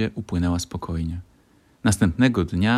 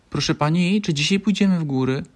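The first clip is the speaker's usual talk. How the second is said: put-on higher, eager child's question; hopeful; 9 semitones higher, 3 dB louder than usual. A narrator's reading. Franio asks the teacher about the mountains, hopeful and eager. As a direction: ask full of hope. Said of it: "spytał z nadzieją w głosie".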